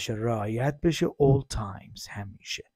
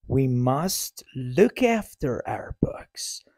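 whispered model sentence; slower than usual. Shown as a demonstration. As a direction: whisper it, slowly. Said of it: "same words, whispered".

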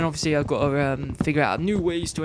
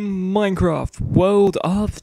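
excited intro; 5 semitones higher, 8 dB louder than usual. Acted. Video intro greeting.

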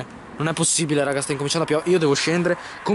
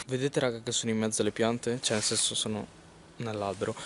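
softer, hushed voice; 3 semitones lower, 6 dB quieter than usual. Real, not acted. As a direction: keep it low so passers-by won't hear. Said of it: "La gente sta passando".

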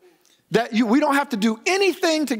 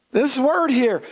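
complete sung out high and slow; stress on complete; 7 semitones higher, much slower than usual. Shown as a demonstration. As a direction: lean hard on complete, lifting it high. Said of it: "I cannot emphasize that word there enough".

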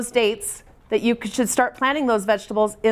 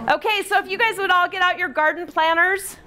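raised, projecting mom voice; 6 semitones higher than usual. Real, not acted. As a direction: call out to the whole room like a mom. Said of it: "Use my mom voice".

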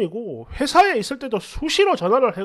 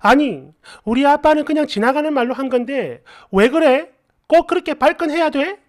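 imitated girlfriend's annoyed complaint, rising in pitch; mildly acted indignant scolding; angry girlfriend; 3 semitones higher than usual. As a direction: act out her angry protest. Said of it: "전화로 막 화를 냅니다".

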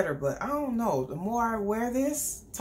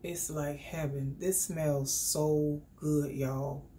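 slow, softer blissful murmur; soft savoring; 5 semitones lower, 3 dB quieter, slower than usual. Real, not acted. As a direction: savor the scent dreamily. Smelling sprayed perfume.

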